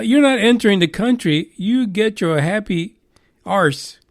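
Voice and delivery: badly faked Australian accent, brushing him off; failed Australian accent. Australia turning the conspiracy theorist away, bad Australian accent. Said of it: "That's not even Australian".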